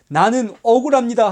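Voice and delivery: loud, high cry of injustice; imitating a wronged protester shouting; mock outcry. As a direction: shout the grievance. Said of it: "하고 소리치는 그런".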